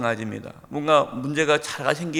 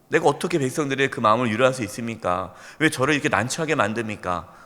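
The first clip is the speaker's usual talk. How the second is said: 1 arguing Joshua. Retold or imitated. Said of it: "여러분, 지금 따지는 거예요".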